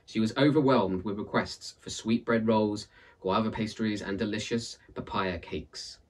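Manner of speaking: lively storyteller reading a folktale; story narration. A narrator's reading. Narrator reading a folktale aloud, lively storytelling. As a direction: tell it like a read-aloud tale for listeners.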